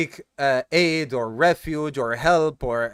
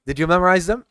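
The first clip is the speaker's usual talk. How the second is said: louder, rousing question; livelier ask; 5 dB louder, faster than usual. Real, not acted. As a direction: shake off the tiredness and ask it out loud. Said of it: "You can tell I'm tired".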